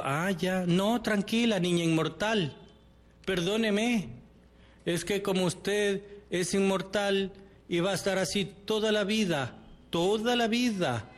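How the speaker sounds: un poco más agudo, burla sarcástica; sarcasmo. Retold or imitated. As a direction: burlate de ella con falsa amabilidad. Responde con sarcasmo a la hija. (la madre se burla con sarcasmo de la niña inmortal)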